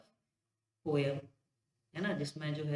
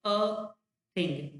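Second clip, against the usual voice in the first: "a" set apart, then "thing" stressed. Shown as a demonstration. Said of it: "थिंग में stress पड़ रहा है". ("a" के बाद रुककर "thing" पर ज़ोर)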